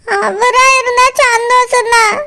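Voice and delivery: slow, weepy fretting; tearful worry. Acted. Girl fears another groom, tearful. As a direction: worry aloud through tears. இப்படி அழுது வடிஞ்சிட்டு இருக்காத.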